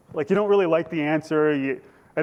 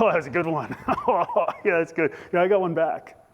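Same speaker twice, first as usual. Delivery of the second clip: mock amusement; 2 semitones higher than usual. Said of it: "Think they're gonna be like".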